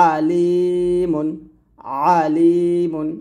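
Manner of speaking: আলিমুন with thin, squeezed ayn and long লি; pressed ayn. Shown as a demonstration. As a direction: squeeze mid-throat to begin আলিমুন, then draw out the ee. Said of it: "চাপ দিয়ে চিকন করে বলতে হবে".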